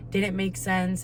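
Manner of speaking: ordinary talk, nothing marked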